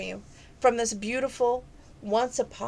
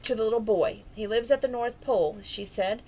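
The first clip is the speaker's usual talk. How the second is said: gentle read-aloud storytelling voice; story narration. A narrator's reading. Reader telling a penguin Christmas story to listeners, storybook narration. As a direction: read it like a bedtime picture book. Reads a children's picture book.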